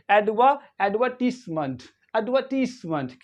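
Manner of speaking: एडवर्टीजमेंट as "ud-VUR-tiss-munt" with silent R; soft S. Shown as a demonstration. Teacher models British word, soft S and no R. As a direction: hiss a soft S, not Z, in एडवर्टीजमेंट. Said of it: "तो इसको पढ़ेंगे".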